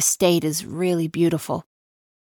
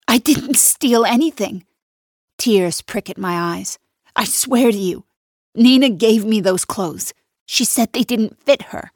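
desperate denial; 5 semitones higher, 3 dB louder than usual. Acted. Millie tearfully denying theft.

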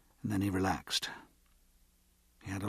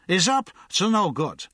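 higher, louder tipsy accusation; hiccupy insistence; drunk accuser; 9 semitones higher, 6 dB louder than usual. A narrator's reading. Drunk insists the guard is up to no good, tipsy. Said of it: "The drunk hiccuped".

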